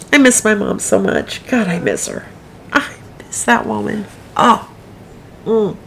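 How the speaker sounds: soft, choked-up grief for a mother; tearful. Real, not acted. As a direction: fight back real tears as the voice drops away. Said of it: "I'm gonna cry".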